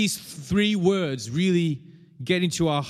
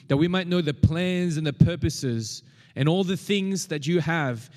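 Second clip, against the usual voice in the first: prayer. Real, not acted. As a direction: pray aloud on the congregation's behalf, unhurried. Leads congregation in prayer.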